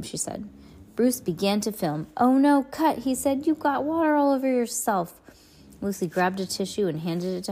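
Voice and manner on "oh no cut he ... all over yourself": alarmed cut. Acted. Bruce stops filming.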